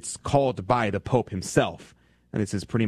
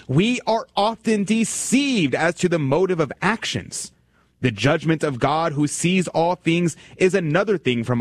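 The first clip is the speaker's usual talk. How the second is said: solemn reading; 5 semitones higher, slower than usual. Acted. Reading a quotation aloud.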